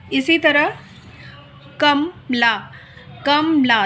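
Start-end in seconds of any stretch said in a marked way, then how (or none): 1.8-3.9 कमला with a clear long final आ. Shown as a demonstration. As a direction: sound out कमला, leaning on ला. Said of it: "दोनों की ध्वनियों में बहुत ज़्यादा अंतर है". (कमला, आ की मात्रा साफ़)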